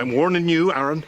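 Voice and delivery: angry warning. Acted. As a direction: warn him off hard. Lord threatens boy.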